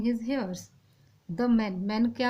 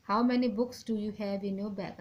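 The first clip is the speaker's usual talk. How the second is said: slow dictation; much slower than usual. Shown as a demonstration. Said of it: "ऐसे हम how many books do you have in your bags नहीं लिख सकते".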